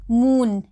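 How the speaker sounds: moon with a long stretched oo; long oo sound. Shown as a demonstration. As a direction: draw out the oo in moon. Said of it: "ऊ word पे हम ज़्यादा stretch". (moon में ऊ को खींचकर बोलें)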